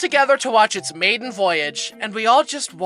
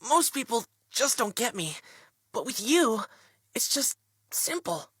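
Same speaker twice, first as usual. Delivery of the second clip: softer, hushed cheesy confession; soft heartfelt mock; 8 dB quieter than usual. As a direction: play it like a corny romance lead.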